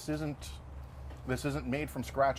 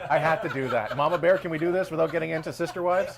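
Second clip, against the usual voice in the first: loud, laughing through the words; cracking up during a group hug; 5 semitones higher, 7 dB louder than usual. Real, not acted. Group hug, joking about wives.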